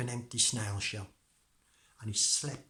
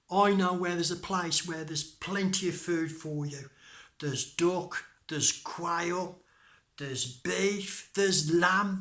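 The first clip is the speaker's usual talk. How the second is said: high little voice; 8 semitones higher, 6 dB louder than usual. Acted. Tom bargains with the wolf.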